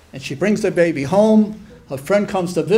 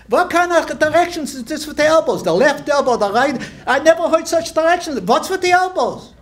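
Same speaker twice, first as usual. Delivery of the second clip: baffled indignation; 6 semitones higher than usual. Acted. Friend baffled by elbow directions.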